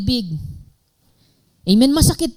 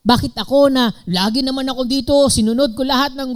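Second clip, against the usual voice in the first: aggrieved complaint; 6 semitones higher, faster than usual. Pretend. Older son complains to father.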